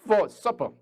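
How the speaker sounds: very slow, word by word; slow teacher model sentence. Shown as a demonstration. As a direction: drill it slowly. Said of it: "너 저녁에 뭐 먹었니?".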